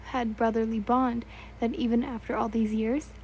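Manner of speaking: talking through a yawn; words stretched by a yawn. Real, not acted. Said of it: "I'm sorry for the yawning".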